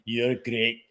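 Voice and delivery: squeaky mock voice. Mock voice about future grandson.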